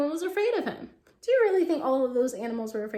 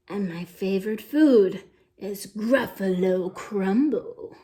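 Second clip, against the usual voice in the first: sly mouse; 5 semitones lower, 4 dB louder, slower than usual. Acted. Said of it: "The mouse said".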